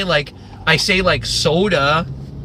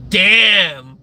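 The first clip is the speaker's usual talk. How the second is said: impressed onlooker; 4 dB louder than usual. Acted. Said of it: "being like".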